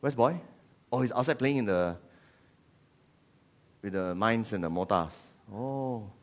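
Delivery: lightly played, unhurried English politeness; mock English parents. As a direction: chat mildly like unworried English parents. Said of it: "You do the English thing".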